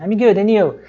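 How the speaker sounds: "and you" linked, the D in "and" not pronounced; casual "and you" without the D; swallowed D. Shown as a demonstration. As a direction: drop the D of "and", running straight into "you". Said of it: "Ele não vai pronunciar esse Dzinho".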